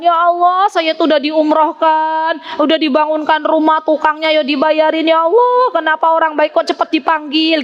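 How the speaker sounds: high-pitched wailing mourner, hammed up; mock sobbing lament. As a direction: lament like a grieving neighbour, without real tears. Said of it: "Nangis sesungguhkan".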